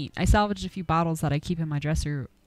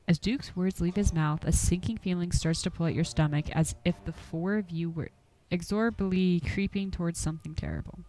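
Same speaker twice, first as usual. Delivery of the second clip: ominous narration. A narrator's reading. Game master narrating a creeping sense of doom, hushed. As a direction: draw them into dread.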